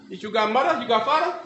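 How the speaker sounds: put-on broken English in a Japanese accent, rising questions; Japanese judge. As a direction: quiz him as a Japanese judge.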